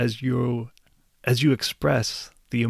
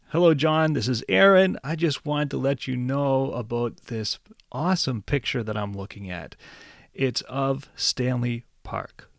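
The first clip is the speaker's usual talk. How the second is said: lively phone greeting. Shown as a demonstration. Teacher demos excited call to friend John, upbeat. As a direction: sound excited to tell John about the picture. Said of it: "So you could say".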